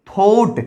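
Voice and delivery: "थॉट" with a single "aw" vowel; थॉट without any "ow" glide; silent-u pronunciation. Shown as a demonstration. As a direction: say थॉट as "thawt", the u left silent. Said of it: "क्योंकि यू भी silent है".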